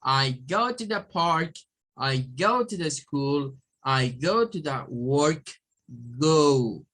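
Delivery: slow model sentences, "go" as gliding "gohw"; slow teacher demo, "go" rounded into oo; English long O. Shown as a demonstration. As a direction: draw out each "go" with an English O. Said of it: "es go".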